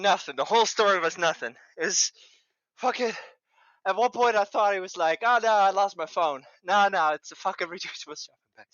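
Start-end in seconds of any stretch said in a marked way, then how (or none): 5.2-8.7 breathless from laughing; gasping between words; out of breath. Real, not acted. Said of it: "I'm out of breath".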